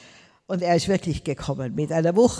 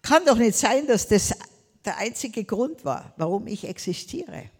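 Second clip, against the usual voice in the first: retold prayer; 5 semitones higher, 3 dB louder than usual. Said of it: "habe ich gesagt".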